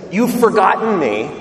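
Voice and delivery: God's reproach, mildly emphatic; retold reprimand. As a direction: deliver a firm but restrained rebuke to a people. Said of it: "when he reprimands them".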